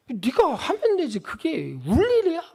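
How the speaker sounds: lightly voiced blunt father; unsympathetic dad. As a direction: brush off the crying child. Father quoting himself to crying child.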